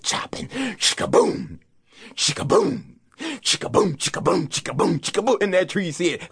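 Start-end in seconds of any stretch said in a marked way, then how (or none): none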